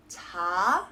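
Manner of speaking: 작은 as an open ta, long pause, then kun; 작은 broken in two, g only on the second syllable; deliberate pause. Shown as a demonstration. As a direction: hold a gap between ta and kun in 작은. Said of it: "an actual pause in between the two syllables".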